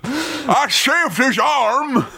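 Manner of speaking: slow, high indignant cry; mock protest. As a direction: plead it slowly, up high. Acted Connery excuse.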